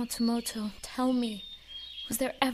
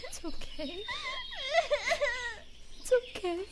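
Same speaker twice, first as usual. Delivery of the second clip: soft self-comfort after tears; 12 semitones higher, 6 dB quieter than usual. Acted. Calming herself after crying.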